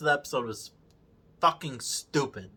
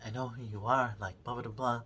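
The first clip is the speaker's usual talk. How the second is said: mumbled dismissively; 4 semitones lower, 11 dB quieter than usual. Retold or imitated. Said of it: "and he's like".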